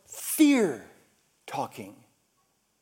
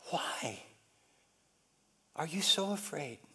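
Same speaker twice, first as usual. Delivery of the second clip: soft question; 4 semitones lower, 12 dB quieter than usual. Acted. Jesus asks quietly.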